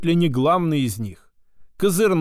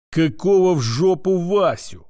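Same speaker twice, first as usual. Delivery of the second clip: a growled retort, a bit louder; 3 semitones higher, 3 dB louder than usual. A narrator's reading. Furious woman growls back at her old friend. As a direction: snarl it, thrown off balance. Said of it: "прорычала полностью выведенная из равновесия".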